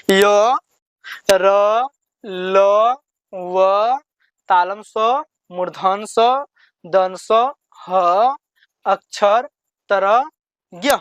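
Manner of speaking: teacher reciting letters one by one, drawn out; letter recitation. Shown as a demonstration. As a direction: sound out each letter with a pause after it. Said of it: "फिर से हम आपको पढ़ाते हैं".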